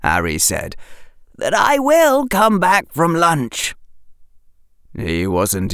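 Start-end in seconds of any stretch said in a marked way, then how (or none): 1.4-3.8 put-on higher earnest boy; sincere promise from a boy; young boy voice. A narrator's reading. Harry voiced in story.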